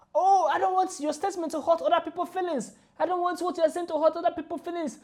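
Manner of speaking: a hint of a whiny apologetic professor; mocking the professor. Vlogger mimics the apologizing professor, lightly mocking. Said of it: "he apologized".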